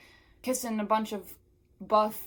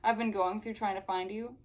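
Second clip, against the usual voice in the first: higher, indignant scolding, easing off toward the end; acted screeching; 4 semitones higher than usual. Melanie berating Wanda on her return, higher indignant screech. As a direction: scold in mock outrage. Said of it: "she screeched at me".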